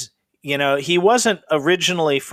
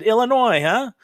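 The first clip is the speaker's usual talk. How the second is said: put-on surprised old man; 9 semitones higher than usual. Old neighbor quizzing a young cook, surprised. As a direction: lift it like an old guy catching you out. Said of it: "and he said".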